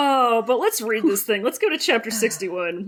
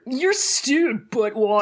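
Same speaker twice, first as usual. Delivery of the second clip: Chad voice; much slower than usual. Shown as a demonstration. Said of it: "what did you do to warm up".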